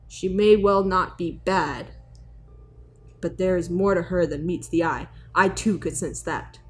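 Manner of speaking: deep serious mentor voice. Acted. Dubbing a wise character.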